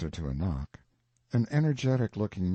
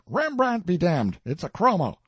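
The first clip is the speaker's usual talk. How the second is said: louder, higher scoffing retort; scornful outburst; 9 semitones higher, 6 dB louder than usual. A narrator's reading. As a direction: spit out the contempt. Collector scorns the picture.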